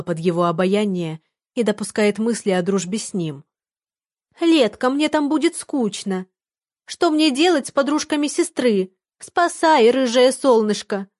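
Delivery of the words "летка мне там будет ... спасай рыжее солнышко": thin squeaky voice, high and mocking. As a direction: mimic him in a high squeak. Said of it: "Тонким писклявым голосом передразнила она парня".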